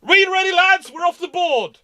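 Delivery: high, hearty mock rally; rally the lads despite the wound; wounded lord's rallying call. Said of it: "and he still goes".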